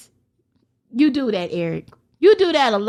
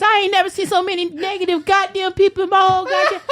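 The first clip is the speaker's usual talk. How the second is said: laughing rant; 4 semitones higher than usual. Real, not acted. Ranting, dissolves into laughter.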